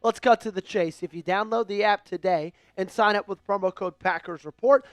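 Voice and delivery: upbeat sponsor read, even and practiced. Acted. Host reads sponsor spot to stream viewers, practiced ad voice.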